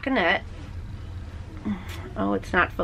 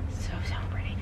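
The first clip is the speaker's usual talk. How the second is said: breathy whisper of admiration; admiring whisper; 11 dB quieter, faster than usual. Real, not acted. Knitter admiring purple yarn to viewers, hushed whisper. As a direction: hush your voice in awe at the yarn.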